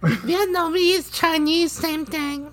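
put-on slow Vietnamese-accented drawl; bad put-on Vietnamese accent. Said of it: "he has a really bad Vietnamese accent".

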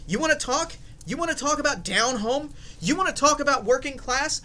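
hammy high-pitched sales pitch. Pretend. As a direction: pitch it like a cheesy beer ad. Hammed-up beer ad pitch.

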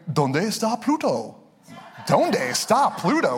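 lightly put-on dubbed cartoon voice in Spanish; mock deep voice, speaking Spanish. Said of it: "It's like a deep voice".

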